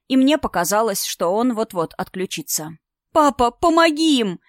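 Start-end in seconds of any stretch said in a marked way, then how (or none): 3.1-4.4 high, loud cry for help; desperate shout. A narrator's reading. Daughter screaming at father to help her friends, loud plea. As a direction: shout it, begging. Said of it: "закричала я".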